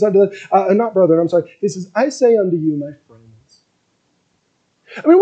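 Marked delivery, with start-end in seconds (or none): 1.9-3.3 tender address to friends; gentle and calm. Acted. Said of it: "a gentle and calm way".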